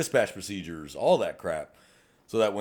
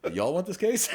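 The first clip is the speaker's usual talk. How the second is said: laughing plea; 10 semitones higher than usual. Retold or imitated. Pleading with other agency.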